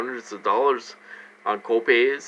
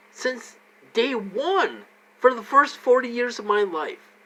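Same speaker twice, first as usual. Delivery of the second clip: real upset rant, high-pitched and loud; worked-up, high, loud venting; getting loud; 7 semitones higher, 4 dB louder, slower than usual. Real, not acted. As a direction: raise your voice in exasperated protest, stretching key phrases. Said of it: "Sorry, I'm getting loud".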